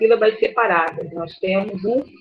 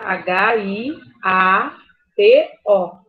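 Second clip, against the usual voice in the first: "H I A T O" slowly, letter by letter; name each letter of "H I A T O" separately; slow spelling with gaps between letters; much slower than usual. Shown as a demonstration. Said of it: "Hiato é com H".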